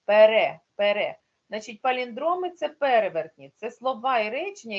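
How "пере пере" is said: пере said with the stress on its second е; teacher leans on the last е of пере. Shown as a demonstration. Teacher shows pupils the stress, the second е of пере hit. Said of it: "наголос на другому".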